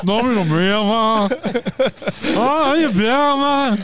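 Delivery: put-on high, loud, garbled Irish accent; hammed-up Irish shouting; bad Irish accent. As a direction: bellow a hopeless Belfast accent. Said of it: "Sound like a deaf Irish person".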